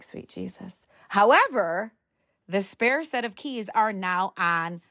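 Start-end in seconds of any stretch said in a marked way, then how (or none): 0.0-0.9 exasperated mutter. Retold or imitated. Mom resigned at shoes in Jeep.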